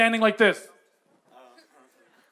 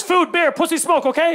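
higher, lightly mimicked hawker; street vendor pitch; 5 semitones higher than usual. Motorcyclist repeats his offer to a puzzled tourist, vendor pitch.

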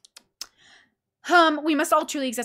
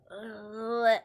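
imitated "ugh" of refusal; mock the world's wordless reply; dismissive noise; 4 dB quieter than usual. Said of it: "and the world's like".

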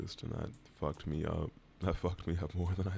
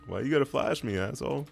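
indignant yell; 5 semitones higher, 6 dB louder than usual. Real, not acted. Blinded by enemy flash.

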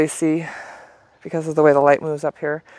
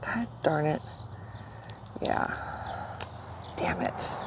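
quiet muttering; 13 dB quieter than usual. Real, not acted. Annoyed at broken graft.

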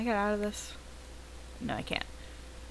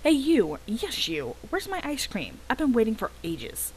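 impatient customer; 5 semitones higher than usual. Acted. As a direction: demand your ice cream from the server. Impatient customer Carl calling out.

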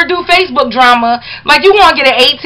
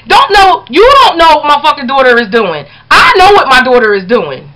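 angry shout. Real, not acted. Mother yelling at the critic over her daughter, angry shout. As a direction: yell it at her, fed up.

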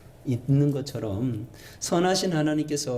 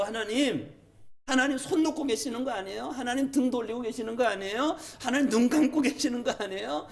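high-pitched, insistent pleading questions; plaintive, piled-up grievances; aggrieved complaint to God; 8 semitones higher than usual. Acted. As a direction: protest to God like a hurt believer. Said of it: "그런 마음 들 때가 있으시죠?".

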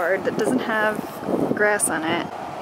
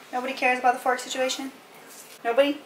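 higher playful dog talk; 5 semitones higher, faster than usual. Real, not acted. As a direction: tease the dogs for ignoring you. Asking the dogs again.

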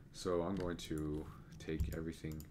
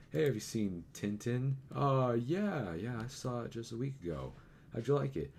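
higher-pitched mock chit-chat; acted small talk; 7 semitones higher, 3 dB louder than usual. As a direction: lightly act out both sides of a casual chat. Acts out an imagined casual chat.

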